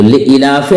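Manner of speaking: लिईलाफि with a short second i; common wrong reading. Shown as a demonstration. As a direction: pass quickly over the "ee" in लिईलाफि. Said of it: "आप या को नहीं पढ़ रहे हैं". (लिईलाफि में ई छोटी, ग़लत)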